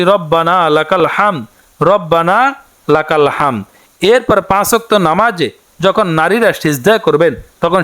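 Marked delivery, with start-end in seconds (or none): 0.0-3.6 slow, measured Arabic recitation, each word clear; careful recitation. Shown as a demonstration. Teacher showing women the prayer words, slow careful recitation. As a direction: recite it slowly so learners can copy. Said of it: "বাংলাতে উচ্চারণটি".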